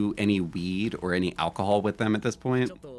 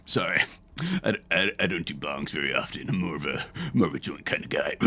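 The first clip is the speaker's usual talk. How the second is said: choked up from coughing; 2 semitones lower than usual. Retold or imitated. Acts choking on bong smoke.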